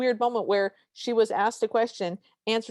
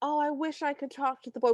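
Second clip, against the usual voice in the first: higher voice, lightly imitating a pining friend; wistful friend; 4 semitones higher than usual. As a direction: play a mildly lovelorn friend, pitched up. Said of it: "had one of those friends".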